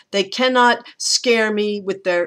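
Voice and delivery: "with their" run together fast after a stressed "cannot"; rushed line. Shown as a demonstration. Teacher showing students how unstressed words speed up. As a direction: let the unstressed words race. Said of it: "it just goes really fast".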